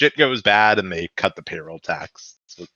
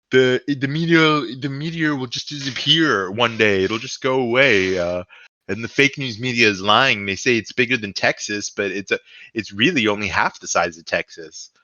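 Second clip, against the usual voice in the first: Trump impression. Podcaster mocking Trump's reaction to a meteor, light Trump voice. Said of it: "It was my best attempt at a Trump voice".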